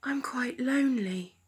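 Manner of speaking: a soft whispered sigh of loneliness; lonely whisper. Acted. Owl thinking to himself, a lonely whisper. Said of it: "he thought".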